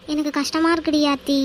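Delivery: understated weepy plea; tearful. Acted. Upset friend telling her friend it hurts, tearful. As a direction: confide the hurt through tears. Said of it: "அழுகையை நிறுத்து".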